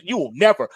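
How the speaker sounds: "You will never" said with weight on never; emphatic quote. Retold or imitated. Quoting the Fed chair's flat promise, emphatic. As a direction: stress on never, firm and flat. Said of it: "That was an emphatic statement".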